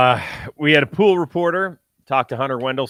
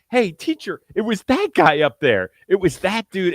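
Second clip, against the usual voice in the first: high-pitched, mock-indignant protest; Aaron Boone; 7 semitones higher, 5 dB louder than usual. Host mimics ejected manager blaming a fan, mock yelling. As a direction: imitate a tattling schoolkid yelling to the teacher. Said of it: "he starts screaming".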